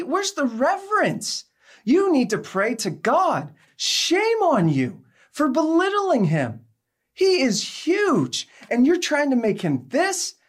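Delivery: high, forceful scolding; stern rebuke. Retold or imitated. Scolding a woman who called God Daddy, stern and high. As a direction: preach down at her with righteous scorn.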